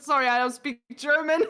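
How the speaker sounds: imitated German-accented English, close to own voice. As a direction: counter in a mock German accent. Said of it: "Those German, like, accent".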